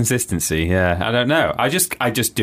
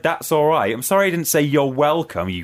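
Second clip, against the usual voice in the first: mock indignant rant; 6 semitones higher than usual. Retold indignant rant at teacher.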